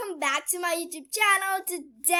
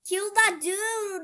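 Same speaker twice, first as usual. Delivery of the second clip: higher, slow kill that dude; loud urging; 7 semitones higher, 5 dB louder, slower than usual. Pretend. Urging the player loudly. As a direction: command it out loud. Same words, now loud.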